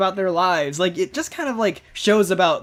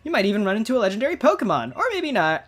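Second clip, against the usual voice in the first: lightly voiced game character, higher pitch; fortune teller character; 4 semitones higher than usual. Fortune teller telling a trainer about legendary Pokemon, lightly acted high voice.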